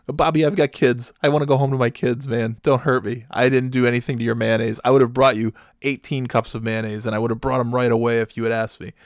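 hammed-up, urgent begging; mock frightened pleading. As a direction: plead in mock panic, pushing the voice. Acted fearful plea to cornering Bobby.

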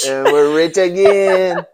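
high, slow, laughing mock cheer; shrieking jackpot winner. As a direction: gloat like a lottery winner. Joking about riches.

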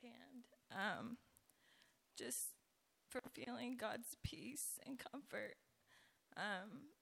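hoarse, scratchy speaking voice; talking through a raspy throat. Real, not acted. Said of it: "Excuse my raspy voice".

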